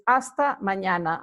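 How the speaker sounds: mañana with a clear ñ, maɲana; Spanish ñ. Shown as a demonstration. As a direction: stress the ñ sound in mañana. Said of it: "you also pronounce the ñ".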